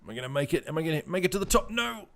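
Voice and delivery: rising anxious questions, ending in a high-pitched wail; straining suspense. Real, not acted. Dragon fails to climb in game.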